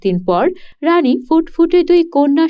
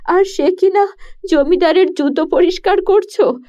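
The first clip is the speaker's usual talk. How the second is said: lightly raised, pleading queen voice; worried queen; 4 semitones higher than usual. Acted. Queen confides her fears to the king at night, worried.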